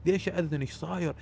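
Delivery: mildly panicked quote from a storyteller; frightened questioning. Retold or imitated. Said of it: "أنا خفت".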